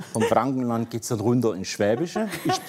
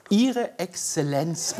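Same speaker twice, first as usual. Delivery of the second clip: amused, drawn-out reading; 5 semitones higher, much slower than usual. Shown as a demonstration. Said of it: "jetzt sprechen die mich an".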